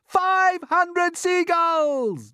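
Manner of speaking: high, loud, very slow triumphant cry; shouted count. Acted. James counting gulls, drawn-out triumphant shout. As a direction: stretch out the count. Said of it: "James shouted".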